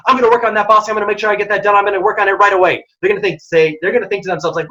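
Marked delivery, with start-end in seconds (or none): 0.1-2.8 quick, eager, higher voice; keen employee answering fast; fast eager reply. Shown as a demonstration. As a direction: rattle it off with urgency. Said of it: "if someone's talking really quickly".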